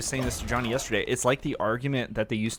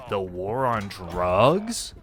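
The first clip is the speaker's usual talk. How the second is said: slow, stunned disbelief; incredulous echo; 2 semitones lower, much slower than usual. Retold or imitated. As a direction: repeat it slowly in disbelief. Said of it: "and I'm like".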